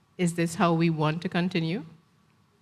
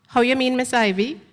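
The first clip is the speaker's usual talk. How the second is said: put-on anxious young woman; 6 semitones higher, 4 dB louder than usual. Gail answers Miss Ivy nervously.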